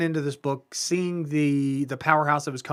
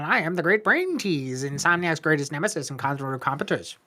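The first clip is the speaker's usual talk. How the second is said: condescending voice. Pretend. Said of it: "very condescending voice".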